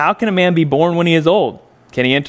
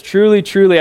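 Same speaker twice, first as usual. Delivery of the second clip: "Truly, truly" struck louder and higher, falling; emphatic; 4 semitones higher, 4 dB louder than usual. Shown as a demonstration. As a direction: punch each "truly" with weight. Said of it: "sort of emphatically stating".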